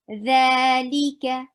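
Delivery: li ka with crisp short vowels, slowly. Shown as a demonstration. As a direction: keep li and ka short.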